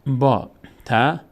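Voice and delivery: با and ت said slowly and apart; slow teacher spelling; slow syllable drill. Shown as a demonstration. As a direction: sound out با and ت slowly for the class.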